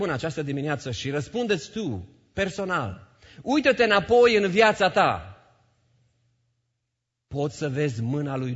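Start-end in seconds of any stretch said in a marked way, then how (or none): 3.4-5.3 loud, high urging; urgent call. Real, not acted. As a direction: call them to look back, forcefully. Preacher urging congregation loudly. (strigăt îndemnător)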